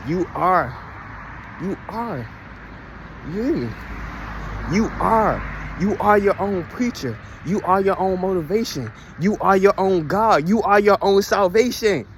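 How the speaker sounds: slow, emphatic declarations; preaching affirmations. Real, not acted. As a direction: drive each line home like a preacher. Sermon-like declarations to viewers.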